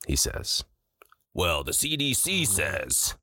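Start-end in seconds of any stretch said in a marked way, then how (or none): 1.3-3.1 put-on slow, drawn-out smug old-man voice; mock smug old man. Friend mocks the grumpy Whole Foods shopper, slow smug know-it-all. Mocking the old dude's reply.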